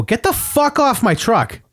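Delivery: high, slow mock yell; retold angry order. Retelling his order to a stranger on his truck, angry but contained. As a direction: order him off, pitch up, volume held back. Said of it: "I was pretty loud".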